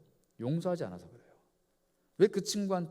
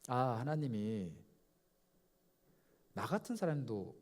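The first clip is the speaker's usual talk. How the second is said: soft inner reflection; 4 semitones lower, 4 dB quieter than usual. Retold or imitated. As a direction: wonder aloud at God's grace.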